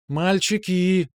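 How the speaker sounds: slow, high, sweet call from afar. A narrator's reading. Girl calling the boys to dance, slow sweet call. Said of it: "донёсся милый зов".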